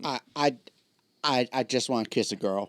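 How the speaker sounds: halting, laughing mock confession; mock lovestruck stammer. Friend teasing him about his audition crush, laughing mock stammer.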